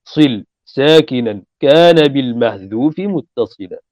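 slow, measured recitation of a grammar poem; slow didactic verse recitation; reciting verse. Shown as a demonstration. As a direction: chant the line like a memorized verse. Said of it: "هذا معنى قوله".

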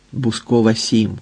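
ordinary delivery

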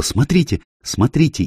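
sudden high startled call; alarmed cry. A narrator's reading. Lola spotting something wrong at the table, high startled cry. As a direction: catch your breath and point, high. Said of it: "Лола тихо вскрикнула".

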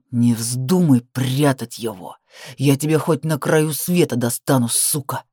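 low, slow, menacing; low menacing threat. Acted. Man warns woman not to hide the boy, low menace.

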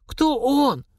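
the major feigning ignorance to the suspect; fake puzzlement. A narrator's reading. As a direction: play dumb, too innocent. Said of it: "с фальшивым недоумением".

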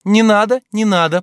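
high, loud command. A narrator's reading. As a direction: order the boatman to stop. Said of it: "приказывала она лодочнику". (приказным тоном, громко)

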